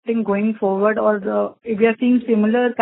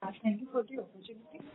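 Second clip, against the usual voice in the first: much softer, far from the mic; barely audible; 19 dB quieter than usual. Real, not acted. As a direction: speak too faintly to be heard. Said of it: "Your voice is very low".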